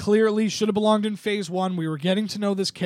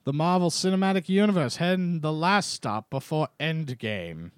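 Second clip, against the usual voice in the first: Marvel announcer voice. Acted. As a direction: introduce it like an old newsreel. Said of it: "that was my Marvel announcery voice".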